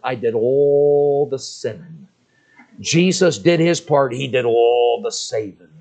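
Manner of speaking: put-on slow, stressed punchline in a boy's voice; earnest child. The boy explaining his part to the preacher, slow and stressed. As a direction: lean on all and did.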